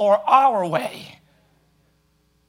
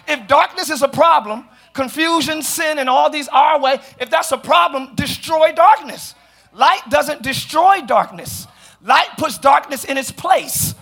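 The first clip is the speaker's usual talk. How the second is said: raised-pitch sermon delivery, slowing on key phrases; emphatic preaching; 4 semitones higher than usual. Real, not acted. Preacher reasoning with congregation about darkness, emphatic preaching. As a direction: drive each point home like a preacher.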